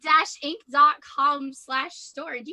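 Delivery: playful mid-game advert; sponsor plug. Pretend. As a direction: plug it like an announcer, spelling out the address. Mock plug for the book.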